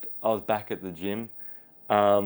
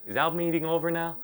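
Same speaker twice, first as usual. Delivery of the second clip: Jerry Lewis; 6 semitones higher, 3 dB quieter than usual. Retold or imitated. Comedian ending an awkward chat with a fan, high mimicry. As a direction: lean in with a pitched-up comedian voice. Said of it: "he just leans in and goes".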